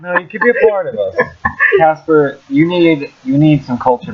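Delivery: high, pleading call to a town; eager appeal. Real, not acted. Appeal to Casper listeners.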